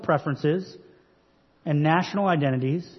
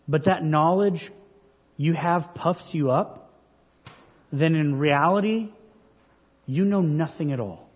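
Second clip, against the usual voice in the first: mildly sarcastic rebuke, deliberately paced; understated dig, paused between phrases; Paul. Acted. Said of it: "Paul's being rather sarcastic here".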